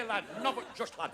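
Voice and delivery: "not but just lad" in a broad Yorkshire dad voice; a Yorkshire father grumbling "not but just lad"; Northern dad. Retold or imitated. Northern father scolding his son, broad Yorkshire grumble. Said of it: "dad said".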